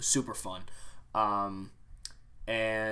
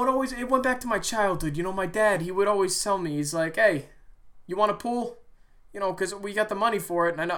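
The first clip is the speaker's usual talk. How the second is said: higher, louder gruff rant voice; imitated coworker rant; 7 semitones higher, 4 dB louder than usual. Coworker ranting to him about pools, mimicked higher and louder.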